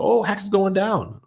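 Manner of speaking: put-on a kid groaning as the chart drops; imitating his son, dismayed. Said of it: "And the second I start to go".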